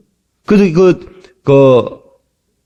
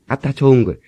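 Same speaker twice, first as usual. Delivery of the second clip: Jeolla dialect cue, a bit softer; 전라도 사투리 추임새; 4 dB quieter than usual. Shown as a demonstration. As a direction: repeat the Jeolla refrain as a prompt. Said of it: "그렇게 하세요". (전라도 말로 추임새 시범)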